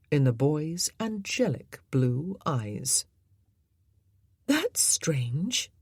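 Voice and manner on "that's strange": breathy whisper; Jean remarks on entering the library, whispered. Acted. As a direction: breathe it almost without voice. Jean enters, new scene.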